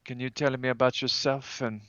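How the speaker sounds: usual speaking voice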